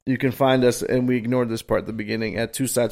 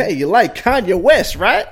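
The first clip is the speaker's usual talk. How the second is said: imitating the customer; 7 semitones higher, 5 dB louder than usual. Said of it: "Try to relate to you".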